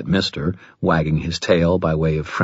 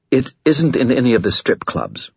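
sheepish skull voice; 6 semitones higher than usual. Acted.

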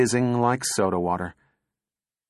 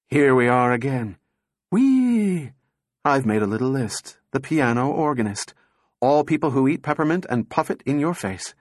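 giddy addled robot; 3 semitones higher than usual. Acted. Addled robot reciting nonsense to the two men, giddy.

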